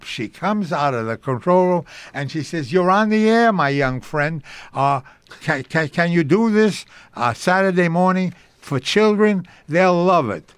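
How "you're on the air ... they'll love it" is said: imitating an eager radio producer; lifted, keen offer, as if eyes light up; delighted. Producer offering a young actor a show, imitated delight. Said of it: "her eyes light up".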